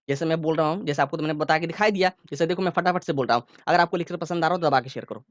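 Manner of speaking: quick patter without raising the voice; rapid-fire demo. Shown as a demonstration. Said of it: "मैंने फटाफट से बोल दिया, मैंने जोर से नहीं बोला".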